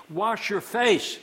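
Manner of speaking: slow, loud "wash your face"; emphatic. Acted. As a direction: hammer the command home. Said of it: "emphatic command".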